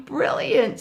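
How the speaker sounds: high, loud delighted cry; excited tiger. Acted. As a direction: burst out with glee. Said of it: "said Tiger".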